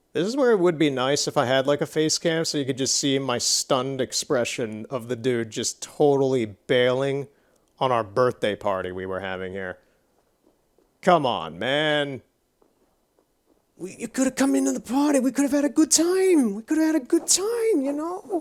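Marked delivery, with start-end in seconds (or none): 11.0-18.5 voice strained hard, very high, pleading. Calling out to a guy who bailed on their birthday party, strained voice for effect. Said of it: "I was straining my voice pretty hard there for effect".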